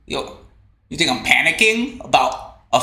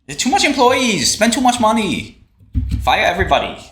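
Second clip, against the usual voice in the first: higher, clipped imitation of a Korean boss's broken English; mock accented boss; 6 semitones higher than usual. Streamer imitates Miss Kim firing everybody, higher pitch. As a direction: play Miss Kim advising to fire staff, higher pitch.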